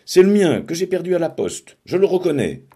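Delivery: high, loud accusing cry; girl snatching a pen, crying out high and loud; shouting. A narrator's reading. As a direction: yell it out, grabbing the pen. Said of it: "en criant".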